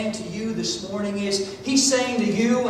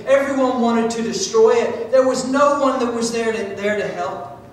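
impassioned preaching; 4 semitones higher, 4 dB louder than usual. Real, not acted. Preacher heatedly describing furious enemies.

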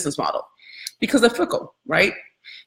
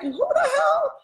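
laughing disbelief; 3 dB quieter, slower than usual. Retold or imitated. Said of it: "I was like".

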